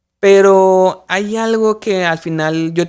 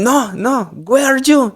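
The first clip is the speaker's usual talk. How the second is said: put-on desperate boss, Indian-English accent; 9 semitones higher, much slower than usual. Boss on the phone asks César where he is, desperate, Indian-English accent. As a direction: repeat the question in an exasperated Indian-English accent. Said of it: "escuché la desesperación en su voz".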